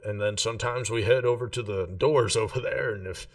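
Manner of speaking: a chummy local barman talking up his bar; barman Tom. Acted. GM voices bartender Tom.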